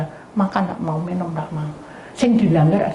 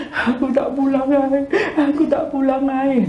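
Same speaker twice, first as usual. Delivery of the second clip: upset maid; 6 semitones higher than usual. Retold or imitated. Maid threatening to leave.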